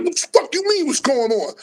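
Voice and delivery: imitating a sharp, high, hostile retort; mock-aggressive pitch jump on what the fuck; retold angry comeback. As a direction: throw the question back at him like a challenge. A rapper retold snapping back.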